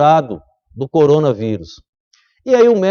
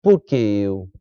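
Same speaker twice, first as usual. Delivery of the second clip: plaintive question; 10 semitones lower, 4 dB quieter, slower than usual. Acted. Preacher mimics complaining believer.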